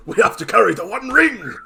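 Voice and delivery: high loud earnest hobbit cry; high heroic hobbit shout; mock hobbit hero. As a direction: ham up a brave little hobbit. Mock Frodo hobbit line.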